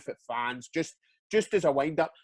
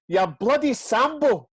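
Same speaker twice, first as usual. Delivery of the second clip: loud, high, slow imitated heckle; re-enacted outraged yell, pitched up; mock old-man shouting; 7 semitones higher, 6 dB louder, slower than usual. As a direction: draw it out in an old fan's shout. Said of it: "he starts shouting".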